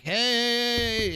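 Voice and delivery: high-pitched hail across voice chat; calling out to stranger. Retold or imitated. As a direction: sing out a bright hey to get attention.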